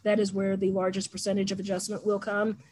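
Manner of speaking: raspy, worn-out voice; losing voice. Real, not acted. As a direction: talk through a hoarse, failing throat. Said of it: "I'm losing my voice".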